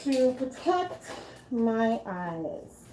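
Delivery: talking through a respirator mask; muffled speech behind a mask. Real, not acted. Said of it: "now I'm in my respirator".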